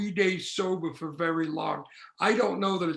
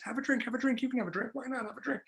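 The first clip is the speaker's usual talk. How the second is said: a lightly voiced, coaxing inner tempter, a bit higher; a hint of a wheedling inner voice, higher; tempting inner voice; 4 semitones higher than usual. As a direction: needle yourself like an addict's whisper. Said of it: "the voice says this".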